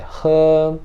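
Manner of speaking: he long and level; first-tone he. Shown as a demonstration. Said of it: "Primeiro tom também".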